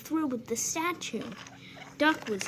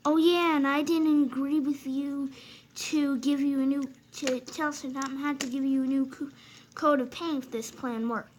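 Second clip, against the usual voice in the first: retorting engine; 3 semitones higher than usual. Acted. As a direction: snap back at him. Other engine answers back.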